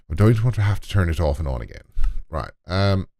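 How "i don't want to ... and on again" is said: a hammed-up, clumsy Irish accent, a bit fast; bad Irish accent. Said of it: "that's a really bad Irish accent".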